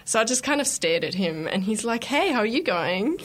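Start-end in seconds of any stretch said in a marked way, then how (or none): 2.0-3.2 lightly mimicked Australian greeting, pitched a little higher; imitated Australian accent. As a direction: put on a hint of an Australian accent. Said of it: "in his Australian accent".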